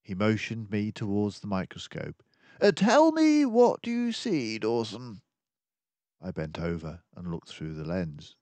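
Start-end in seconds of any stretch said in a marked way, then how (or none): 2.6-5.2 higher, brisk detective voice, urgent; a sharp-minded sleuth laying out the danger; keen detective warning of the villains; mouse detective. Acted. Detective quizzing companion.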